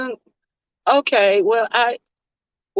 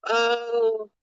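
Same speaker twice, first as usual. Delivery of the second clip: blank little oh; 7 dB quieter than usual. Retold or imitated. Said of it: "M U like".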